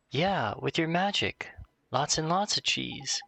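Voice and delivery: high, slow voice of an encouraging friend; imaginary friend. Acted. Imaginary friend urges Oliver to use magic, coaxing.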